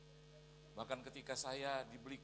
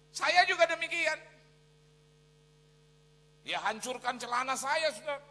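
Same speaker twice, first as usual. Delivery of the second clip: high, very loud declamation; full-force preaching; 13 semitones higher, 14 dB louder than usual. Real, not acted. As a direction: proclaim it to the whole hall.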